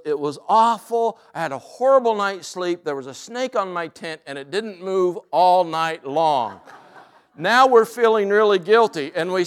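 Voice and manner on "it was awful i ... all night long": a light imitation of an Irish brogue, pitched higher. Carolyn tells friends about her awful night, light Irish brogue. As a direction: lightly retell her complaint in an Irish lilt. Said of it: "And in her Irish brogue".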